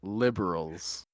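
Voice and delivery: slow, low, soft grumble; imitated weary, drawn-out complaint; iconic line. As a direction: drop it slowly and quietly. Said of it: "the iconic line".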